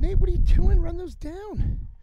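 yelling across the field; calling out. Retold or imitated. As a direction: shout for him to chase them. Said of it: "I said".

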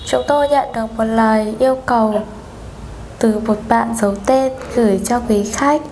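polite phone operator voice; formal hotline greeting; customer service voice. Pretend. Prank call as Viettel operator.

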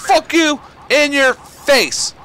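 drawn out, slow and deliberate; slow taunt. Acted. Repeating the taunt at an enemy, slow and deliberate. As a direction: stretch every word of the taunt. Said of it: "What did I just say?".

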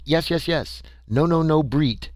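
a hint of a delighted creature; ecstatic alien. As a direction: bubble over with alien glee. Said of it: "Tweel was ecstatic".

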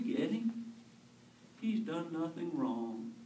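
repentant thief. Acted. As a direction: beg for mercy, rising.

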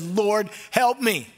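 high, drawn-out cry for help; desperate plea. Acted. Mother crying out to Jesus, slow desperate plea. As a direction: stretch the plea out slowly, pleading. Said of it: "Enough with the titles".

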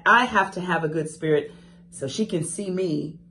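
ordinary delivery

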